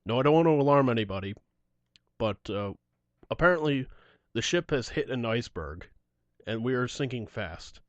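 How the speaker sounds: lightly voiced low, calm rock singer; a hint of a deadpan rock-star announcer. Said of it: "he keeps going in the Gene voice".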